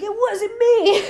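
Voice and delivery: high, slow, laughing put-on British accent; mock British accent. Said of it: "his accent keeps sleep-, slipping".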